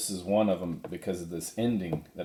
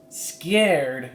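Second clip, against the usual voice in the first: higher, indignant echo; young Jack bristling; offended surprise; 8 semitones higher, 5 dB louder than usual. Acted. Jack objecting to being called scared, higher indignant.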